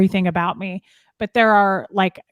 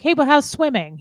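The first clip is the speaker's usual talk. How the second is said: mock breezy deflection; 6 semitones higher than usual. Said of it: "he was like".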